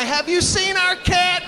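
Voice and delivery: high, shouted neighbor voice asking; mock shouted neighbor question; nosy neighbor. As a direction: call out like a worried neighbor. Neighbors asking about missing cat.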